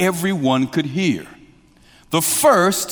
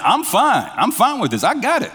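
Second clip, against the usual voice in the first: higher, casual voiced Jesus; light reassurance; 10 semitones higher than usual. Jesus reassuring the crowd, light and high. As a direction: toss it off easily.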